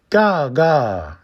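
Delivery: high cawing raven. Acted. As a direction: caw like a bird. Raven caws as bird.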